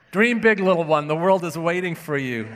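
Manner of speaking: a touch of picture-book encouragement; children's book reading. Retold or imitated. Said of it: "One children's book I, I found begins this way".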